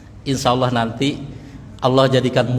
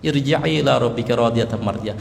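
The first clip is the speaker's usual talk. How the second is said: gentle spoken verse; 3 semitones lower than usual. Shown as a demonstration. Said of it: "dengan tenang".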